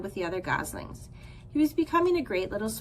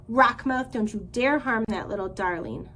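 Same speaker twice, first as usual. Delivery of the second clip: stern warning; 4 dB louder than usual. Acted. Goose defends the gosling.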